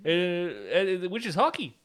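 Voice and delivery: high mock-Canadian boast; Wolverine. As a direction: brag like a cartoon Canadian. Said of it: "be really Canadian".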